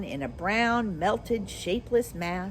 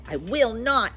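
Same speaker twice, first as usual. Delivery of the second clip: retort; 3 semitones higher, 4 dB louder than usual. Acted. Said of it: "retorted the witch".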